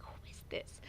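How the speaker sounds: hushed retold phone reply; whispered question.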